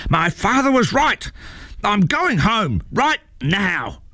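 high tantrum, slowing on the last words; angry troll outburst. A narrator's reading. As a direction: storm off, stretching the final words. Troll storms off yelling.

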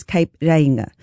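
"Reinga" said the Māori way, not as "Rianga"; correct Māori pronunciation. Shown as a demonstration. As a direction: say "Reinga" with an "ei" glide, no "ee-AN". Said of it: "often pronounced as Rianga".

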